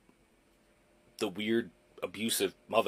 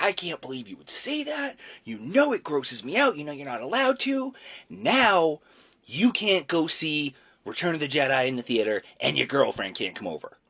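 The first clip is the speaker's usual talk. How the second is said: imitating furious mom; 4 semitones higher than usual. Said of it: "she's like".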